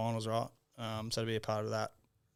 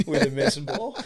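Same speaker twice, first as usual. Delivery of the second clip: put-on Irish accent; 5 semitones higher, 9 dB louder than usual. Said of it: "in his strong Irish accent".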